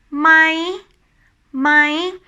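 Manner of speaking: "My" high, ending on a rise. Shown as a demonstration. Teacher showing the yes or no question word, high tone "My". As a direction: lift "My" up and keep it there. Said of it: "talking about the high tone".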